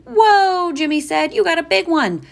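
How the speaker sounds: put-on high awed boy voice; amazed. A narrator's reading. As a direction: gasp in wonder like a kid. Jimmy amazed.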